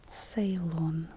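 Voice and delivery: Ceylon begun with ts, as in pizza; initial ts sound. Shown as a demonstration. Teacher giving a ts example word, Ceylon starting with ts. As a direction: say Ceylon as "Tseylon", t and s fused. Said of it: "t, and s as one sound".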